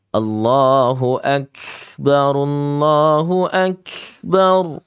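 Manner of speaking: Allahu Akbar slow and drawn, the k of Akbar let loose; wrong azan ending. Shown as a demonstration. Teacher imitating a wrong azan for kids. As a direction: chant Allahu Akbar like the call to prayer, loosening the k. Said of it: "Nggak boleh ya".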